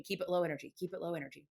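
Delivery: hushed coaching. Retold or imitated. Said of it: "bride's not looking".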